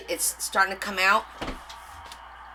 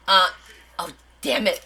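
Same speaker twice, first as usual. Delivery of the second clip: usual speaking voice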